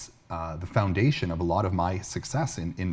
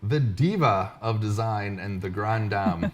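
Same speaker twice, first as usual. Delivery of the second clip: announcer welcome; slower than usual. Acted. Host returns from break.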